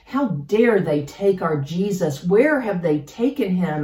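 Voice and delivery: imagined outburst, mildly exasperated; angry and frustrated. Acted. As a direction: act out a touch of angry frustration. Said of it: "angry and frustrated".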